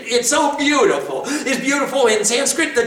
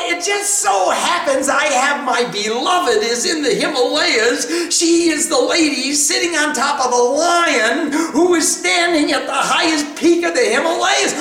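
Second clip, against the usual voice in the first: eager devotee; 4 semitones higher than usual. Acted. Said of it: "he said".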